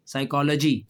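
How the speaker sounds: "साइकोलॉजी" begins with s, no p sound; silent p. Shown as a demonstration. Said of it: "इसमें पी silent है". ("साइकोलॉजी" में पी न बोलें)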